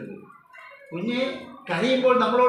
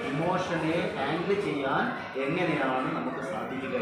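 each word drawn out slowly for the parents; slow it right down so it sinks in; slow emphatic repeat; 2 semitones lower, slower than usual. Shown as a demonstration. Teacher repeating the key skill to parents, slow and deliberate. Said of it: "എന്താണ്?".

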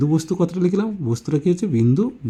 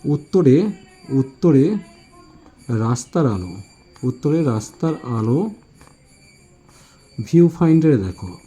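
slow dictation. Shown as a demonstration. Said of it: "একটা সূত্র তোমাদের বলে দিচ্ছি".

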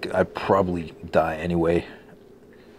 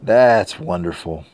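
slow bitter sarcasm at his own mistake; slow heavy sarcasm; slower than usual. Real, not acted. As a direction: drag out "That's wonderful" slowly, dripping irony. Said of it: "I am very unimpressed right now".

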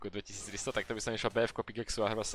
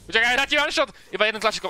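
loud, high hyped-up brag; excited boasting; 10 semitones higher, 8 dB louder than usual. Real, not acted. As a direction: crow about the one-shot. Boasting about a one-shot.

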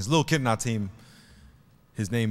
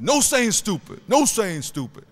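higher-pitched mock telling-off; acted scolding; 9 semitones higher, 4 dB louder than usual. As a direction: lightly act out a coach correcting a kid. Acts out coach correcting the kid.

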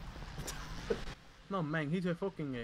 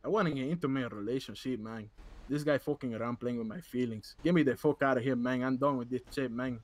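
lightly put-on Latino accent; mild hammed-up Latino accent; 3 semitones lower than usual. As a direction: talk it through a Spanish-flavored accent. Held accented character.

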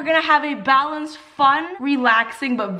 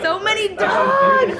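high, slow, laughing delight; 10 semitones higher, much slower than usual. Real, not acted. Mom sees the many party dogs, laughing delight. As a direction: gush over all the dogs.

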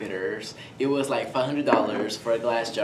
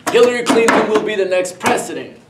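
Bill Clinton impression; 8 semitones higher, 12 dB louder than usual. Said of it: "How do you speak like Bill Clinton?".

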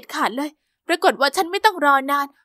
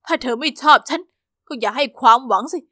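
cold flat voice; 4 semitones lower than usual. Acted. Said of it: "ทำไมทำเสียงไร้อารมณ์จัง".

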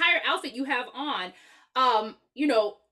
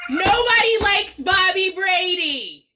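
mock disgust; 7 semitones higher, 8 dB louder, slower than usual. Mock outrage at a childhood crush.

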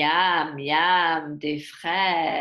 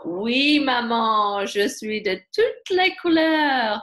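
proud rabbit answer; 3 semitones higher, 6 dB louder, slower than usual. Acted.

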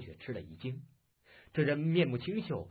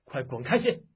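raised, commanding challenge; commanding shout; 5 semitones higher, 4 dB louder than usual. Acted. Soldier ordering bandits to get out of the way, commanding shout. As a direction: call out a stern order to clear off.

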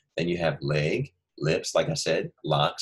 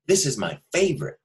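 much higher and louder, eager exclamation; excited; 8 semitones higher, 3 dB louder than usual. Shown as a demonstration. Teacher voicing the excited boy eating a sandwich, excited. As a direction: say it like the boy who loves his sandwich. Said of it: "He's excited".

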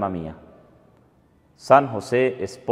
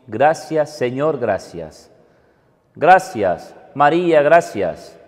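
prayerful thanks; 4 semitones higher, 5 dB louder, slower than usual. Real, not acted. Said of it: "y decimos".

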